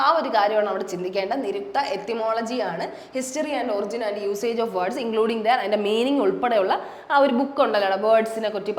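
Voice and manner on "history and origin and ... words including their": English words read slowly, one by one; slow dictation reading. Shown as a demonstration. Teacher reads etymology definition to students, slow dictation.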